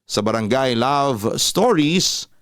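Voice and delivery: announcer closing the program; radio sign-off. Acted. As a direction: stretch out the show name. Radio host signs off show.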